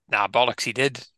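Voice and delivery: put-on broad rural South Wales accent; Welsh accent. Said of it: "is that your Chinese accent there".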